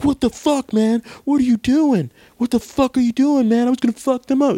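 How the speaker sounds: high, over-the-top outraged thug; evil supremacist. Retold or imitated. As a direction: ham up the furious racist. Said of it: "the evil supremacist guy was like".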